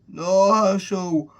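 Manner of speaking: high, loud, drawn-out annoyed cry. Retold or imitated. Ben scolding Herschel, loudly annoyed. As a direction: wail it out in acted exasperation.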